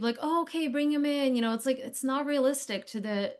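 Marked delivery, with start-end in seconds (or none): 0.2-1.4 higher, mock-unurgent actor voice; mock sleepy indifference. Imitating auditioning doctor receiving a critical patient, mock sleepy indifference. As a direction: imitate an actor with no urgency, half asleep. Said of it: "just, like, falling asleep".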